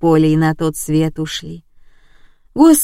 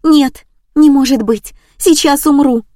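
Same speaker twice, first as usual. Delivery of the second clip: high, loud panicked wail; panicked cry; 7 semitones higher, 6 dB louder than usual. Acted. Woman hearing of the death, panicked high cry. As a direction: shriek as if about to faint.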